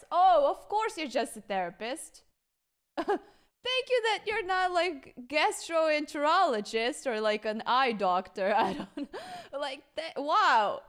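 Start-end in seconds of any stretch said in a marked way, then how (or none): 0.1-2.2 sarcastic. Retold or imitated. Sarcastic retort to doctor. 3.0-8.5 laughing sarcasm. Retold or imitated. Laughing mockery of clinic.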